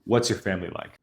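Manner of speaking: what do you like to do here falling firmly at the end; commanding question. Shown as a demonstration. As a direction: question dropping down like a statement. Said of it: "I'm almost commanding the question".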